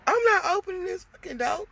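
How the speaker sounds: loud high shout of refusal; yelling back. Retold or imitated. Woman yelling through the door at armed ex.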